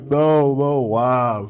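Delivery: retold shocked refusal. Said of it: "She was like".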